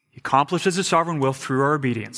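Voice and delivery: fast, easy repeat of the point; quick restatement. Shown as a demonstration. Preacher quickly repeating the point for the congregation. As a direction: rattle it off fast as a recap. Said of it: "here's what we need to know".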